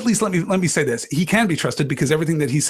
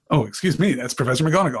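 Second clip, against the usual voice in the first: ordinary talk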